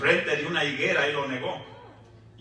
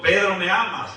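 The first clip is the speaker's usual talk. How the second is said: higher and louder, pressing; insistent third asking; 5 semitones higher, 6 dB louder than usual. Retold or imitated. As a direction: push the question harder the third time. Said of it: "La tercera vez le preguntó". (pregunta más fuerte e insistente)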